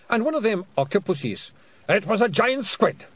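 high, loud rough Scottish pixie; indignant little Scottish warrior; Feegle voice. A narrator's reading.

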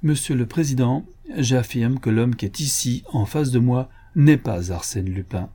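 a touch of solemn gravity, measured; slightly solemn. Acted. Inspector declaring to the court president, lightly solemn. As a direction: state it gravely, only lightly solemn. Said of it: "d'un ton un peu solennel".

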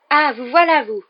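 beaucoup plus aigu et fort, voix de jeune fille; s'écrie en les retrouvant enfin; exclamation soulagée. Acted. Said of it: "s'exclama-t-elle". (Hermione apostrophe Harry et Ron, exclamation vive)

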